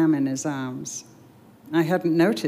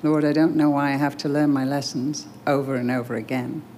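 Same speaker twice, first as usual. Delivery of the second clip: closing prayer. Acted. Reader leading listeners in prayer after the story, earnest prayer. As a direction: pray it aloud for the listeners.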